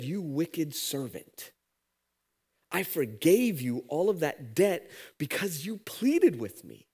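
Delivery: slow, weighty rebuke; slow stern rebuke. Acted. Master rebukes the unforgiving servant, slow and stern. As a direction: judge him word by word.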